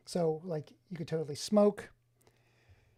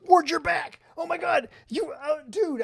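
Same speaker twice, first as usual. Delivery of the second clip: gasp, then higher and louder with real delight; light up at a friend showing up; excited greeting; 9 semitones higher, 7 dB louder than usual. Real, not acted. Streamer thrilled that Ward is back in chat, excited gasp.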